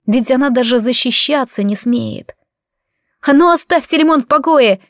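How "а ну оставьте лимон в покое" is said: put-on girl's high ringing shout. A narrator's reading. Girl shouts at boys stoning her dog, higher and louder. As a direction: yell at the bullies, half-brave, half-pleading. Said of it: "крикнула и пожалела".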